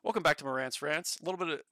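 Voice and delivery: lightly voiced streamer intro; a hint of an upbeat show host; Marantz impression. Asked by chat, a light impression of Marantz's show intro. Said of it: "I wanna hear your best Marantz, Marantz impression".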